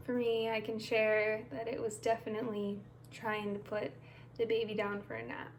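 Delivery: unhurried meditation guide with long pauses; guided meditation. Acted. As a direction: ease listeners through each step, leaving room between phrases.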